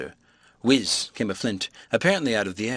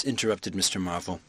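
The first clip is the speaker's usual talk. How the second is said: usual speaking voice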